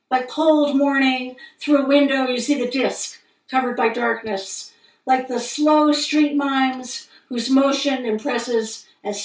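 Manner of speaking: measured poem recitation with deliberate pauses; poetry reading. Acted. Poet reading a moon poem to listeners, measured recital. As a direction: read each phrase as a line of verse. Reads own poem aloud.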